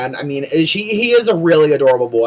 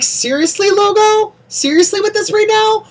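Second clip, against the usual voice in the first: exasperated. Real, not acted. Annoyed at repeated ads.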